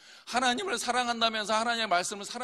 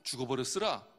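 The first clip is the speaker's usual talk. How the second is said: lower-pitched Jeolla-accent demo; Jeolla dialect; 7 semitones lower, 4 dB quieter than usual. Shown as a demonstration. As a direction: say it like a Jeolla local. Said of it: "전라도".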